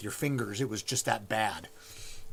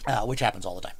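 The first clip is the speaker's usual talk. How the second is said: whispering; 3 semitones lower, faster than usual. Real, not acted. Whispered aside.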